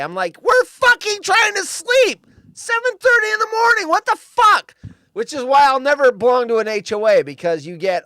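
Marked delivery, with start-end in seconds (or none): 0.4-4.7 retold angry yell. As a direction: bellow it at the HOA, outraged. Yelling at the HOA.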